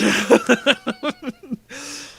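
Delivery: high, loud laughing fit; real giggling. Real, not acted. Reader amused by the accidental accent, real giggling. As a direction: giggle helplessly. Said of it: "I'm still giggling".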